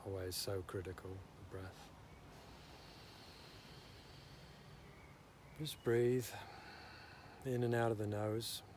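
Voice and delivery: unhurried meditation guidance with long pauses; guided meditation. Real, not acted. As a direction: gently talk them through breathing and listening, leaving space. Leads a breathing meditation.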